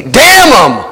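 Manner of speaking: sudden shouted curse; angry outburst. Acted. Thief on the cross rejecting forgiveness, shouted curse. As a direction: spit it out in disbelief.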